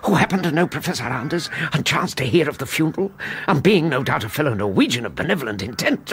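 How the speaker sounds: sarcasm. Acted. Sarcastic mock theory.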